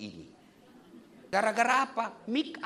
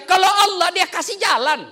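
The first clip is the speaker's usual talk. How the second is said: emphatic preaching; 8 semitones higher, 9 dB louder than usual. Acted. Preaching climax.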